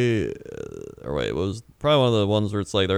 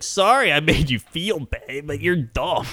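higher-pitched, drawn-out mock apology; lightly mocking non-apology, pitched up; dickish fake apology; 4 semitones higher, slower than usual. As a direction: stretch out a mildly snide, insincere sorry. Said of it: "That's like a dick".

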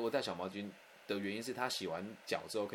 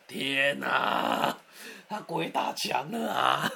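exasperated outcry; 4 semitones higher, 8 dB louder, much slower than usual. Real, not acted. Exasperated at her looping question.

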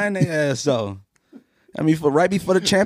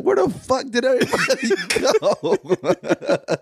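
laughing panic; 9 semitones higher, slower than usual. Retold or imitated. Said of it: "you like".

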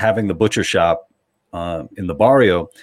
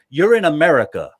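imitated indignant customer, higher, slow and emphatic; angry customer; 6 semitones higher than usual. Customer scolding staff speaking Spanish behind the counter, mock angry. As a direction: draw out the demand like an angry customer. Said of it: "see how angry Black customers".

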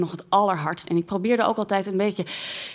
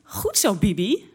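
imitating Linda's cheer; 3 semitones higher, slower than usual. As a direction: egg her on like a cheerleader. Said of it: "hoorde ik Linda zeggen".

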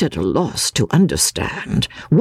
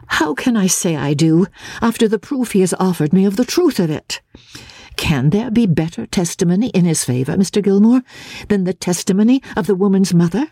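higher, a lightly voiced earnest young woman; Miss Halcombe; 5 semitones higher, faster than usual. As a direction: answer as Marian, quick and slightly troubled. Miss Halcombe argues the proof.

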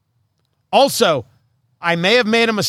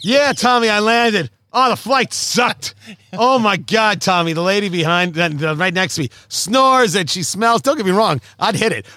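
mock Boston guy on the phone, pitched a little up; lightly hammed-up Boston bragging into a phone; Boston accent; 2 semitones higher than usual. Passenger calling friend Tommy after landing, put-on Boston accent. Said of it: "was that your Boston accent".

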